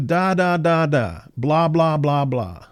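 a hint of singsong baby talk, teasing; mocking baby talk. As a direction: lightly mimic a condescending parent. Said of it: "they're mocking Isaiah".

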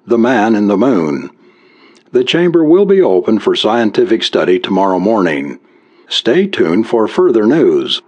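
formal radio news bulletin read; news announcer. A narrator's reading. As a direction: announce it like a wartime radio newsreader.

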